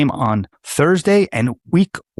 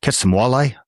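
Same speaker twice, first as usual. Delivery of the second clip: badly faked Canadian accent. Shown as a demonstration. Host retrying his impression for co-host, bad Canadian accent. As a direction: put on a clumsy Canadian accent. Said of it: "a Colombian trying to be Swiss".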